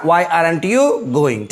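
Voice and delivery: "why aren't you going" said very slowly; teacher slowly repeating "why aren't you going"; slow dictation. Shown as a demonstration. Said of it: "क्या बनेगा".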